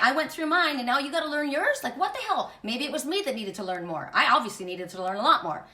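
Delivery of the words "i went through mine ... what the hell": retold exasperation, pitched higher; mad, indignant. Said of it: "I was so mad at him".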